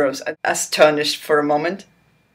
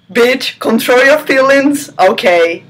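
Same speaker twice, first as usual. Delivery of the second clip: mock scolding; 6 semitones higher, 6 dB louder than usual. Reader scolding the character.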